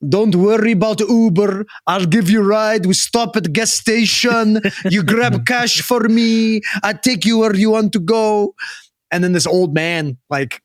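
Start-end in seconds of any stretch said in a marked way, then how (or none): 0.1-8.5 high, loud put-on hustler voice; pushy stranger. Stranger pressing a visiting fan to take his ride, imitated pushy voice. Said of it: "Had a guy walk".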